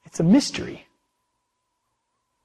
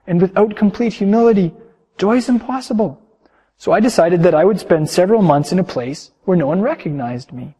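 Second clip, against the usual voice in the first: storyteller reading to the congregation; calm sermon storytelling; story narration. A narrator's reading. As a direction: tell it gently, like reading a tale aloud. Reads a long story aloud.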